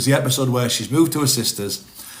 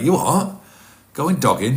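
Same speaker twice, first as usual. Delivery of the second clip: high, loud incredulous "you what"; imitating a man who can't believe his ears; shocked disbelief; 4 semitones higher, 5 dB louder, slower than usual. Retelling the Car Share clip, mimicking his disbelief.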